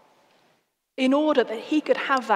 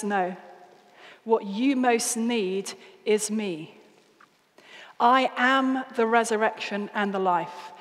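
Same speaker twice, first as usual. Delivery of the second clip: gentle and slow; 2 semitones lower than usual. Acted. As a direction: speak it slowly and tenderly to her. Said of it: "But Jesus meets her in that moment".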